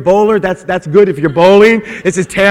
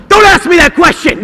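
put-on high, loud snap at the kid; blowing up at an innocent question; angry outburst; 11 semitones higher, 6 dB louder than usual. Dad exploding at his five-year-old son, loud and high. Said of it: "And I'm like".

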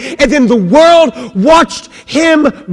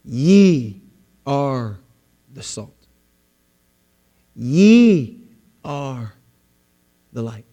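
Ye stressed, rest falling softer; 9 semitones lower, 4 dB quieter, much slower than usual. Shown as a demonstration. Preacher reading Ye to the congregation, emphatic then soft. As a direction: lean on Ye then fade. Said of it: "Look at this".

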